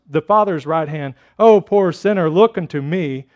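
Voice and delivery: rhythmic pleading, each "Look unto me" lifted; mildly acted preacher hammering a refrain; lay preacher. Preacher speaking as Christ to poor sinners, a lightly acted rising refrain. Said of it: "said this way".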